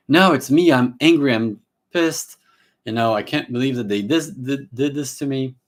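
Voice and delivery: loud, high, indignant outburst as the client; angry client. Acted. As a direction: play the client who insists the anger is theirs. Therapist acts out angry client.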